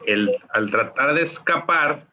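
far-off microphone sound; sounding far from the mic; distant mic. Real, not acted. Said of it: "te escuchas muy lejos".

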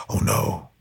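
quiet playful groan of dismay; soft mock dismay. Joking to listeners about being known, softly dismayed. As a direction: drop to a soft mock despair.

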